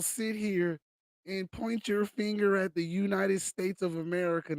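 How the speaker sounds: heated, rising indignation; angry rant. Real, not acted. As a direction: rail at him, building anger. Rant against elites.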